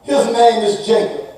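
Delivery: desperate exclamation. Acted. Esau crying out against his cheating brother, loud and desperate. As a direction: shout the betrayal to heaven. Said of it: "Esau exclaimed".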